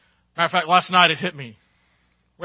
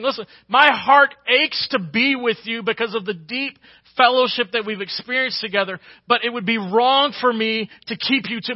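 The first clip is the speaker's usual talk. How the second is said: louder, higher, pleading preacher voice; impassioned Paul; 3 semitones higher, 5 dB louder than usual. Acted. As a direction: plead as Paul, heart aching. Preacher voicing Paul's longing.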